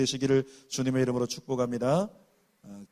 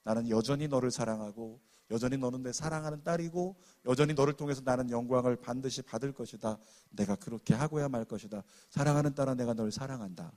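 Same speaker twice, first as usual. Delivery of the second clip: soft, tender voice of God; 4 semitones lower, 4 dB quieter than usual. Retold or imitated. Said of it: "하나님의 마음이 그 자매의 입술을 통해서 들려주는데".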